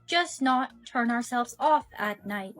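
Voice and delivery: measured, even robot speech; evenly spaced, slightly mechanical words; lightly voiced robot. Robot wonders about staying on at night, lightly robotic.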